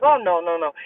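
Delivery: low, mildly calm retold reassurance; unfazed. Driver answering worried passenger about the bluff, calm. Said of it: "he was not freaking out at all".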